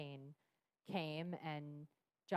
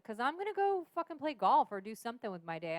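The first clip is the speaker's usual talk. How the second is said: husband's anger; 6 semitones higher, 8 dB louder than usual. Retold or imitated. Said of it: "And he's like".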